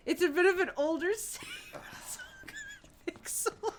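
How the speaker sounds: breathy laughing whisper; hushed giggling reassurance; whispered aside. Real, not acted.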